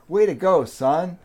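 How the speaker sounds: proud dad. Acted. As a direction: give a mild dad's cheer. Proud dad praising his kid in joke.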